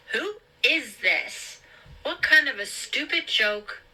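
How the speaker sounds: high-pitched, indignant challenge; high, upset protest to a prank caller; alarmed demand. A narrator's reading. Frightened, angry Meg challenges the caller.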